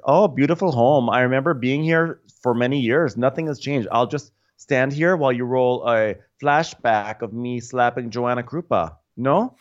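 mock grand entrance. Quoting Adriana.

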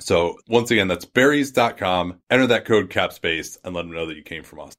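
upbeat sponsor ad read; infomercial. Acted. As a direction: sell it like a radio ad. Host reads sponsor ad.

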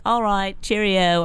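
breezy mock Australian sign-off; dubious Australian goodbye; fake Australian accent. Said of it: "your Australian accent was very good".

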